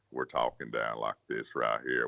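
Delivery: voice dropped into the throat. Demonstrating to a listener how most people talk, voice dropped down in the throat. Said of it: "all dropped down in our throat like this".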